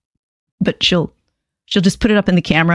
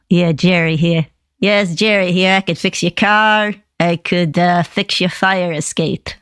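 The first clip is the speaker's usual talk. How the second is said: Jersey handyman puppet; lightly put-on New Jersey accent. Jerry the puppet offering repairs, Jersey accent. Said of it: "That's the jersey".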